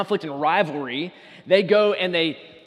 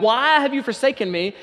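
loud anguished prayer; 5 semitones higher, 5 dB louder than usual. Retold or imitated. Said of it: "He prays out to God".

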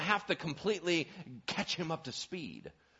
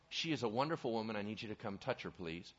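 soft plea; 5 semitones lower, 6 dB quieter, faster than usual. Retold or imitated.

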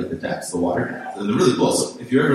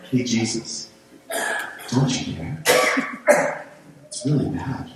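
understated, casual mock-polite plea; unhurried and timid, with pauses between phrases; mock calm. Shown as a demonstration. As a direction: ask it mildly, as if nothing is urgent. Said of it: "I don't think this is a calm".

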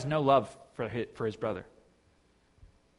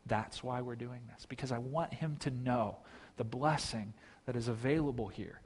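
soft, lower, tender appeal; pleading father; 3 semitones lower, 8 dB quieter than usual. Acted. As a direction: reason quietly and patiently with a son. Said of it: "he's pleading with his son".

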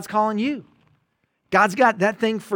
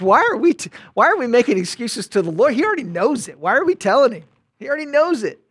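higher and louder, pressing the question; urgent preaching; 5 semitones higher, 6 dB louder, faster than usual. Real, not acted. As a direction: push it hard like a preacher calling out.

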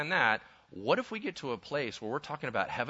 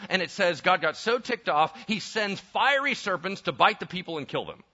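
ordinary delivery

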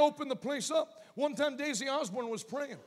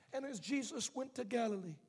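gentle reading voice. Retold or imitated. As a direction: read it gently off the page. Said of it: "reading like that".

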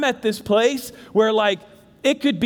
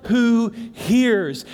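gentle voice of God; much slower than usual. Acted. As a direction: promise it tenderly. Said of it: "I know God is saying".

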